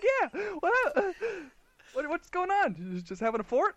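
hammed-up dopey questioning; mock drunk brother. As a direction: play the clueless drunk asking about the fort. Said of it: "He's like".

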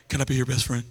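low, sweet pleading; mock-earnest disciple; eager kid. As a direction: ask like a clingy little brother. James voiced eager.

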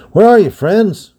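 slow, loud, high call into the dark house. Acted. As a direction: call out to find missing friends. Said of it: "cried Rodney".

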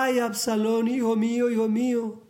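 lightly acted grief of a father; mournful lament. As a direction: cry out for a lost son, without real tears. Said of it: "Lloraba y decía".

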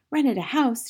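high, incredulous outburst; mild indignant shout. A narrator's reading. Aunt exploding at the news, high indignant cry. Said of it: "she shouted".

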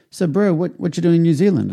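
a friendly big Maori guy asking casually, bro; tattooist voice. Retold or imitated.

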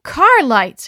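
high, loud sudden call; excited exclaim. A narrator's reading. Missus Grant seeing rescue, excited shout. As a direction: spot the lights and cry out. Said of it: "exclaimed Missus Grant".

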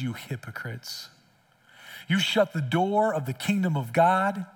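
solemn reading of Jesus' rebuke; scripture reading. Real, not acted. Pastor reads Matthew to the church, solemn. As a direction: read the woes with slow weight.

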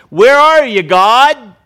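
loud, high desperate cry; anguished cry to God. Acted. Believer crying out to God over surrounding evil, loud and anguished. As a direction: shout it up to heaven in despair.

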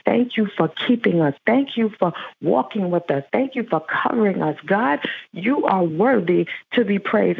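earnest spoken prayer, rhythmic thank-yous. Real, not acted. Pastor praying over the congregation in earnest prayer. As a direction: pray it aloud for the whole room.

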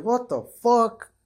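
shocked outcry. Retold or imitated. Kid reacting to being burned, retold in high drawn-out shock. Reacting to second burn in story.

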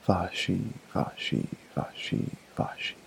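fading to a breathless murmur under his breath; muttered. A narrator's reading. Hunter muttering out of habit in the tree, fading mutter. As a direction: mutter it to himself, dying away. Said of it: "he muttered".

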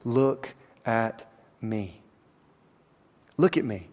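slow, soft "Look at me", drawn out; softly as God. Acted. Preacher voicing God to the congregation, soft and slow. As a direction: let God's call come hushed and slow. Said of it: "God is telling you".

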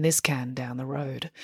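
unvoiced playful whisper. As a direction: drop to a secret whisper. Aside whispered at end of plug.

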